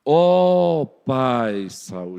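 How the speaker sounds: slow, drawn-out reverent address; respectful David. Acted. David honouring Saul despite persecution, slow and reverent. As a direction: honour him, very slowly. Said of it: "observem a diferença".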